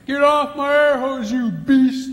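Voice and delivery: high, loud, slow mock yell; mock furious wife. Wife yelling at the elephant on her air hose, high mock shriek. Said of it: "repeat of the wife's yell".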